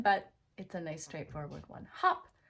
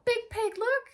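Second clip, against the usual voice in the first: much higher and louder, squealing with delight; overdone excitement; 9 dB louder than usual. Shown as a demonstration. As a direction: sell it big to a little kid. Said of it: "you can overdo your excitement".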